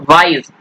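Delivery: one smooth syllable for वाइज; single vowel sound. Shown as a demonstration. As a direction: model वाइज unbroken. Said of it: "ई vowel sound".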